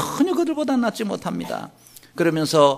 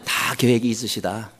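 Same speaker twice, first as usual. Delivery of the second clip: call for congregation to repeat; 7 semitones lower than usual. Shown as a demonstration. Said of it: "따라하시기 바랍니다".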